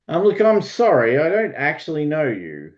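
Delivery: high-voiced, emphatic lordly apology; lord addressing strangers. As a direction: lift the voice high, politely dismissive. Acted lord addresses unknown callers.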